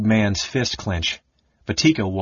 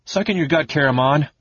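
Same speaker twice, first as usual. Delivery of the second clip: irritable order; 6 semitones higher than usual. Acted. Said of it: "he ordered irritably".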